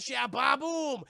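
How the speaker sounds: loud, high ba-boom; hyped storyteller boom; excited sound effect. Retold or imitated. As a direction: punch out the blast. Acting out sudden explosion.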